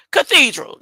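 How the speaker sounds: "cathedral" carefully corrected, kuh-THEE-drul; careful correct pronunciation. Shown as a demonstration. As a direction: land "cathedral" right after stumbling. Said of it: "I can't even say the catheter word right".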